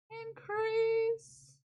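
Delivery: high, loud sing-song Increase; increase said as in crass. Shown as a demonstration. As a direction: call out Increase split as in crass. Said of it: "I usually say increase like in crass".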